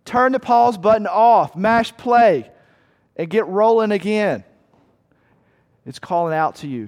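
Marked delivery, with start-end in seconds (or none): 0.0-4.4 raised voice urging someone to get moving; mild yell. Acted. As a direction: call it out, punchy and insistent. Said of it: "Proverbs is yelling at you".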